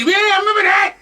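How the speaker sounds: high loud mock listener voice; imitating listeners. Host imitating listeners remembering the library, high shout. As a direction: shout it like an old-timer remembering. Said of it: "everybody, you say".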